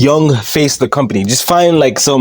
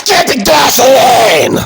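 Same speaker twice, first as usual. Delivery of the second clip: high, hammed-up screamed order; Vince McMahon; 7 semitones higher, slower than usual. Boss ordering Randy Orton, mock scream. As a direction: scream it slowly, stretching the last word. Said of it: "He just keeps screaming it".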